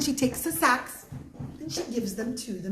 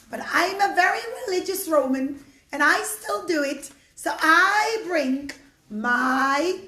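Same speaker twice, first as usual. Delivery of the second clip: put-on old woman voice; 4 dB louder than usual. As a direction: speak like a frail grateful old woman.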